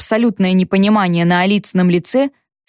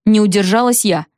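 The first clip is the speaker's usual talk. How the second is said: ordinary delivery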